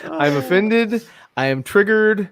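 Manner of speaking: slow, laughing fake outrage; mock offended. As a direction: ham up the hurt feelings. Joining the offended joke.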